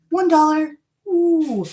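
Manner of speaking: light up at the bargain; excited delight. Real, not acted. Price contrast delight.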